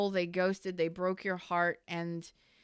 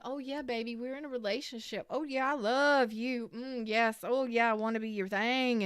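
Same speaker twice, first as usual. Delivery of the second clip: mock sultry cooing, higher; 4 semitones higher than usual. Reader mocking the flirty ex's sweet talk, cooing. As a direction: imitate a flirt sweet-talking a new partner. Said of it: "They flirt, they have fun".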